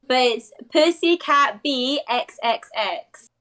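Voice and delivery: spelled out slowly; slow proud announcement. Shown as a demonstration. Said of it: "Can you say it proudly?".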